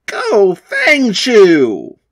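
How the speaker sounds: slow, loud cry sending out a monster; rallying cry. Acted. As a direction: call the monster into the fight. Kid calls out his monster.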